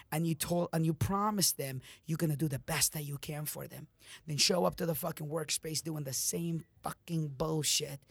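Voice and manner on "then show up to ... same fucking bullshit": harsh whisper. Real, not acted. Angry whispered rebuke.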